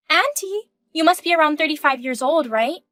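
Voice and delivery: put-on a sly young voice poking at an older woman; teasing. Young mistress teasing the wife with a high, sly "Auntie". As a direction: pitch it up high and needle her with "Auntie".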